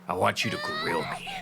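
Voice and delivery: a video character pleading, in a high whispered shout; pleading grill guy. Retold or imitated. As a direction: beg to be grilled in a strained squeak. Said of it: "The guy was like".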